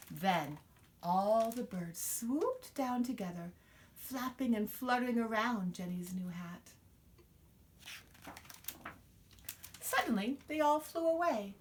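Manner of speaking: lively storybook reading; reading to children. Acted. Mother reading a picture book to her child, expressive storytelling. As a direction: read it out to little ones, full of wonder.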